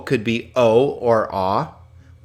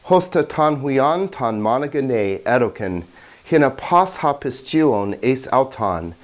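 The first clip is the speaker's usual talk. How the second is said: scripture reading in Greek. Shown as a demonstration. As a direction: let them hear the beauty of the language. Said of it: "allow me to read John three sixteen for you in Greek".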